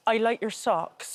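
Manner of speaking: slow, deliberate Bristol accent sample; Bristolian accent. Shown as a demonstration. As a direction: demo the Bristolian phrase slowly. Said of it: "all I'd say is go".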